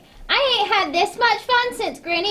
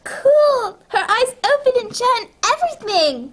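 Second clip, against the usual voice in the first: delighted; 4 semitones higher than usual. Acted. Girl thrilled with her new doll, delighted. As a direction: squeal with delight.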